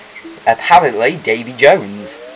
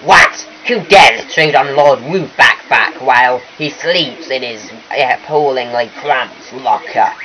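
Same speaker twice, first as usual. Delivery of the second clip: a touch of pompous outrage; lightly voiced indignant boss fish; 4 dB louder, slower than usual. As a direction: play a self-important fish, mildly affronted. Voices the boss fish's dialogue.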